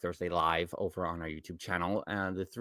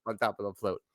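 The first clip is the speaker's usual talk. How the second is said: Woody voice; 4 semitones higher, 4 dB louder than usual. Retold or imitated. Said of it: "Woody was like".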